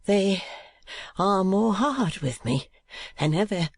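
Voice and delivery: put-on high, slow, tearful boy; a tearful high boy's voice; sobbing boy. A narrator's reading. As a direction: plead through tears, high. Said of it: "sobbed the boy".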